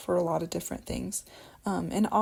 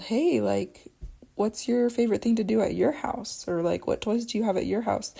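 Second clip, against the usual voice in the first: put-on asking a child; 3 semitones higher than usual. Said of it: "So if I'm asking a child".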